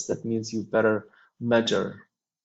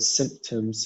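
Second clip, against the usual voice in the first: symptoms with the stress on "symp"; "symptoms", first syllable stressed. Shown as a demonstration. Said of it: "we have the stress on the first syllable".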